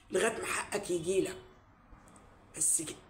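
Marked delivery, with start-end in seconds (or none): 2.6-3.0 soft trailing off. Real, not acted. Fading end of speech.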